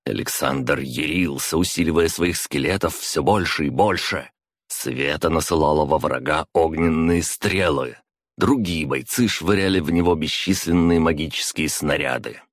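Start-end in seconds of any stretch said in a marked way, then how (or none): none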